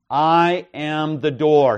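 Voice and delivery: "I" stressed, slow and loud; emphatic I. Shown as a demonstration. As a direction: lean hard on the word "I". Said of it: "in both of these cases is emphatic".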